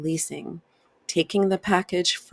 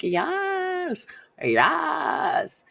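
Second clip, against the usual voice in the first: much higher, eager yes yes; 12 semitones higher than usual. Retold or imitated. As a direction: cheer a client on as they start yawning, pitched high. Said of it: "I'm like".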